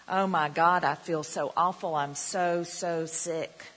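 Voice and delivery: a touch of whiny, moaning sick person; mock sick person. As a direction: moan it like someone sorry for themself. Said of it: "somebody who's acting sick".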